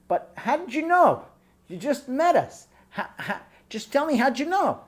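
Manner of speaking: mock desperate groom asking how; pleading. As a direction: beg him to explain. Devastated groom pleads with rabbi.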